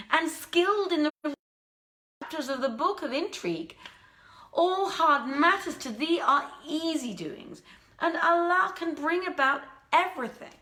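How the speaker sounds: a hint of a noble prince flattering his helper; grateful prince. Prince thanks the old woman and trusts her cunning, lightly voiced.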